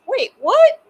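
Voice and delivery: high, loud imitated surprise; a hammed-up wait, what; mock surprise. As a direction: play the star thrown off. Star surprised, retold.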